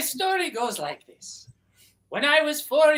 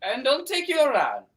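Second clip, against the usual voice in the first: put-on Irish accent; 3 semitones higher than usual. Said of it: "gave us a wonderful Irish accent".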